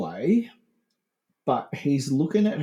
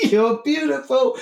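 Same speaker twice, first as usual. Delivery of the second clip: high, loud mock holler; hammed-up shout through the joke; mock calling out; 11 semitones higher, 5 dB louder than usual. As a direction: keep hollering it over the reply. Acts out shouter in parody song.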